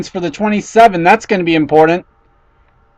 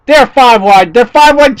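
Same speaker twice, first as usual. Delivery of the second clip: excited; 4 semitones higher, 4 dB louder than usual. Real, not acted. Live race call, cars five wide.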